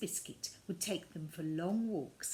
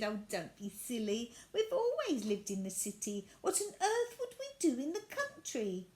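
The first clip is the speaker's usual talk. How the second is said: laughing; 3 semitones higher, 3 dB louder than usual. Acted. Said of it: "she laughed and said".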